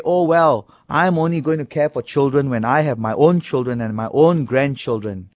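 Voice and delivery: mock excuse. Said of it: "Do you say".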